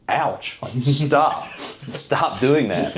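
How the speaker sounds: half-laughing complaint at the needle pricks; lightly hammed-up hurt whine; mock pained protest. EMTs pricking his toes.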